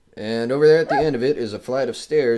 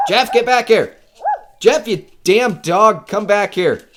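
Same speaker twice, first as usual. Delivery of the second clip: loud, higher, furious yelling after the dog; angry shout; 10 semitones higher, 10 dB louder than usual. Acted. Owner yells angrily at his runaway dog, loud and slow. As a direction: bark the order, slow and hard on Jeff.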